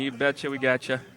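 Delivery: a touch of Minnesotan accent. Real, not acted. Sportscaster thanking an emailer, in a Minnesotan accent. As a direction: let a little Minnesotan creep in. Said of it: "that Minnesotan accent coming in there".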